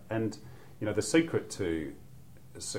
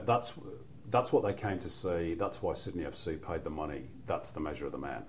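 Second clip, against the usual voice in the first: commentary line; 4 semitones lower, 5 dB quieter than usual. Retold or imitated. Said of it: "I think my line was".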